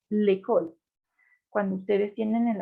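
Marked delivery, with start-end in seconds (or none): 0.1-0.7 "l'école" with its E held closed. Shown as a demonstration. Teacher models the acute accent, "l'école" with closed E. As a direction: say "l'école" like lay-KOL. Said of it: "suena una E cerrada".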